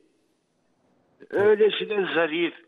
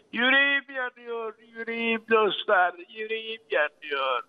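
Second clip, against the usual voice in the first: crying out loud; 3 semitones higher than usual. Real, not acted. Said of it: "Bağıra bağıra ağlamak geliyor içimden".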